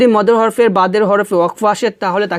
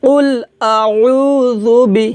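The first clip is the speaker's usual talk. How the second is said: recitação lenta com o meio de "আউযু" esticado; recitação guiada; 3 semitones higher, much slower than usual. Shown as a demonstration. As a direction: recite devagar para o aluno repetir. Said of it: "আমার সাথে বলেন".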